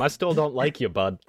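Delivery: grudging parting shout at the toad; yelled insult. Acted. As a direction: yell it after him as he leaves. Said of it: "I'm gonna yell at him".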